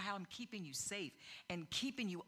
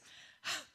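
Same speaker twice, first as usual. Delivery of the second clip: sharp huffed breath; mimicking a child's indignant huff; imitated huff. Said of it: "she learned to do this".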